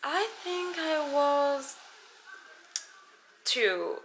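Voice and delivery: put-on a star feigning wonder at an old photo; play-acted amazement. Pretends host shows childhood photo.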